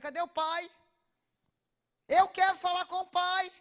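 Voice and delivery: loud, high, outraged call for the father; angry demand. Retold or imitated. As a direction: demand the father at full volume. Therapist furious demanding the father.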